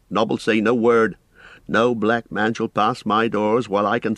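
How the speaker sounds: lightly voiced, stout-hearted landlord; reassuring innkeeper. Innkeeper promises to keep watch tonight, reassuring. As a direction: promise protection, mildly resolute.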